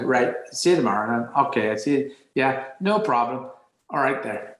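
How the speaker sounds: casual Northern Irish goodbye to mates; Northern Irish accent. Acted. Kid parting from friends outside, Northern Irish accent. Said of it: "we would accent change at the front door".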